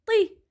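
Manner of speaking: طي sung out high and bright; طي said with emphatic t and long i; syllable طي. Shown as a demonstration. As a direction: sound out طي for the class. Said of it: "تصير طي".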